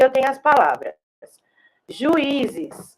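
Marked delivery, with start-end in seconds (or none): 1.9-3.0 whispered. Shown as a demonstration. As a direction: whisper juízes with no voice, softly. (juízes sussurrado, sem voz)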